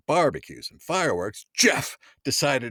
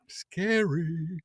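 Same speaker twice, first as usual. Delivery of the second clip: whisper; 7 semitones higher, 6 dB quieter than usual. Pretend. Spooky aside after big claim.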